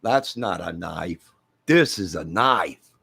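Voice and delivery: put-on slow, lightly Aussie accent; slow mock Australian accent; Crocodile Dundee quote. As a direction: drawl the famous knife line slowly. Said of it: "I'm still talking like an Irishman".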